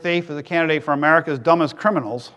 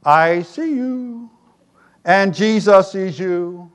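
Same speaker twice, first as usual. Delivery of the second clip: parrot voice; much slower than usual. Acted. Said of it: "The parrot goes".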